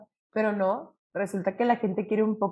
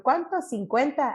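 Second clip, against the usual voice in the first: haggling; 4 semitones higher, slower than usual. Retold or imitated. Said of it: "Y yo".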